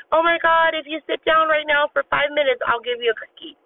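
high-pitched mock of a bribing mother; exasperated mom. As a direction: imitate a frazzled mom bargaining with her kid. Imitates pleading, bribing moms in stores.

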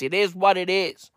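usual speaking voice

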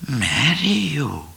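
slow, doubting question; doubtful. A narrator's reading. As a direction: ask it dubiously. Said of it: "said Cat doubtfully".

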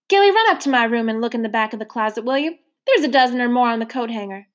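lightly voiced motherly woman, rising coaxingly; a hint of a hearty foster mother; coaxing landlady. Trotter coaxing Mister Randolph to have pie, lightly coaxing. Trotter sends Gilly upstairs.

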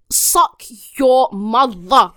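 slow, drawn-out curse; fed-up cursing. Real, not acted. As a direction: stretch every word in exasperation. Cursing the Uber app.

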